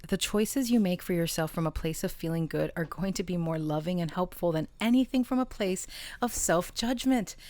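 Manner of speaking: measured read-aloud with weighted key words; oracle card reading. Real, not acted. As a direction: read it out as a message to the listener.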